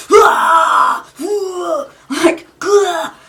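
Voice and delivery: loud, high strained "ah" bursts; clenched strained cry. Shown as a demonstration. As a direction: cry out as if clenching everything tight. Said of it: "It's almost feeling like this".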